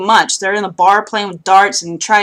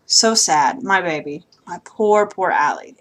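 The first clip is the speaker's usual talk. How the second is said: sad; 3 semitones lower, 5 dB quieter than usual. Real, not acted. Mourning a beaten character.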